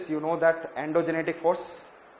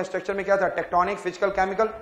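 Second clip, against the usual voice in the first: fast recap; 3 semitones higher, 4 dB louder, faster than usual. Shown as a demonstration. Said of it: "fast में बोलूँगा".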